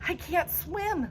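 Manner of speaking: high, slow, scared plea; a boy terrified of the water; frightened cry; frightened wail. A narrator's reading. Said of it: "he starts yelling".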